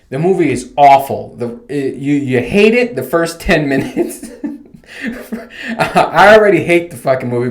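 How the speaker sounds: chuckling through the complaint; laughing. Real, not acted. Vlogger laughs while trashing the movie to viewers, laughing.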